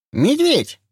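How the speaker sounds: high lisping shout, slushy sh for s. Acted. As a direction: call out high with a thick lisp. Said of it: "Шепелявый голос".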